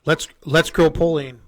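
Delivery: slow, drawn-out spooky voice; creepy voice. Pretend. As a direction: draw it out to sound scary. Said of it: "Is it scary?".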